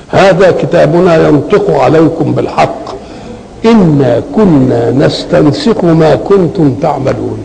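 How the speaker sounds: slow, measured verse reading; Quran recitation. Acted. Teacher reciting the verse to students, measured recitation. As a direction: recite the verse with drawn-out words.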